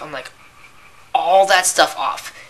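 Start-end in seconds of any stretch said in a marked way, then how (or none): 1.1-2.4 incredulous repeat. Retold or imitated. Cashier's incredulous retort.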